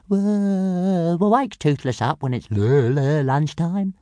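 high, stuttering little dragon; Toothless. A narrator's reading. Dragon settling back to sleep until lunchtime, high stammer. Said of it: "Toothless chuckled".

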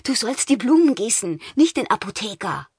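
put-on high, playful boy's tease; teasing boy voice. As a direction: tease her with a grin. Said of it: "sagte Kai".

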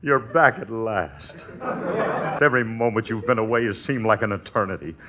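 mock matinee-idol romance; hammed-up romantic lover. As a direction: overplay the reunited sweetheart, drawing it out. Husband hams up romantic greeting.

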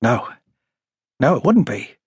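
gently understanding reply; a touch of sympathy, unforced; sensitive, sympathetic. A narrator's reading. Officer sympathising with a haunted witness, sensitive. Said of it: "replied sensitively and sympathetically".

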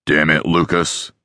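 understated exasperated curse; mild curse. A narrator's reading. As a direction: curse him under control. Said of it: "Dean cursed".

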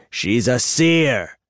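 the Black Reach cutting Bob off with slow, weighted anger; slow, stern correction; angry. A narrator's reading. The elder seer countering Bob, slow and angry. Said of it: "the Black Reach said angrily".

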